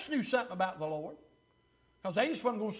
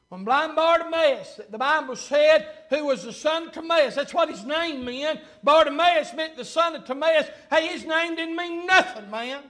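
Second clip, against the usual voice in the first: energetic pulpit delivery, bursts of volume; preaching; 5 semitones higher, 6 dB louder than usual. Real, not acted. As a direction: press the point to the congregation. Preaches at full force.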